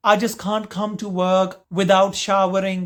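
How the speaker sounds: lightly voiced, slow, hesitant English-speaking colleague; face-saving colleague. Colleague excusing himself to save face, hesitant. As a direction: stretch out the excuse with halting pauses.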